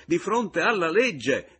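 loud, high, slowed shout. Acted. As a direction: hammer out each word of the repeat. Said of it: "gridò egli".

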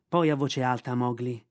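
plain reading voice

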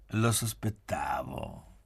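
slow, drawn-out mumbled moan; lightly moaned, stretching the word out; mild moan. A narrator's reading. Pieretto reacting to Gabriella's remark, mild moan. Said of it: "mugolò Pieretto".

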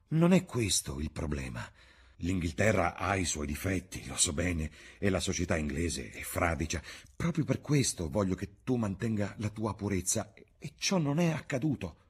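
ordinary delivery, nothing marked

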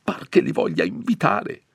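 high, fussy complaining priest voice; a nervous curate grumbling, voice climbing; fretful old priest. Acted. Timid priest grumbling to his housekeeper, high and fussy. Don Abbondio figure speaking.

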